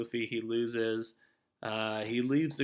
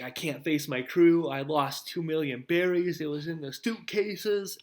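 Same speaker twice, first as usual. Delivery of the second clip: slower, higher and louder, a mildly whiny despairing Usopp; upset Usopp; 5 semitones higher, 5 dB louder than usual. Retold or imitated. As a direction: play a beaten-up Usopp moaning about the lost money, lightly hammed. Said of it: "and he's like".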